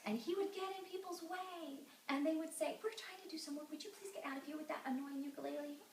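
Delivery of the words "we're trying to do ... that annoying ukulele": higher-pitched irritated complaint; annoyed townsfolk. Acted. Townspeople shooing the boy away, annoyed. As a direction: scold with pointed politeness.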